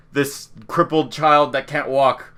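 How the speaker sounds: slow, deliberate retold option; slow weighing-up. Villagers choosing who will be heir, slow weighing-up. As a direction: lay out the option slowly.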